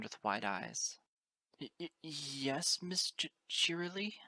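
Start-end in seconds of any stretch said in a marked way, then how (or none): 1.6-4.2 slow, nervous stuttering colt; shivering stammer. A narrator's reading. Shivering colt answering his teacher, nervous stammer. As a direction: stammer it timidly, voice raised. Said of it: "shivering, staring at a sobbing friend".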